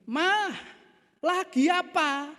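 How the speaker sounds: high, drawn-out call to the wife; acted husband raising his voice. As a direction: call out insistently, stretching each word. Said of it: "lalu ngomong dengan lebih keras".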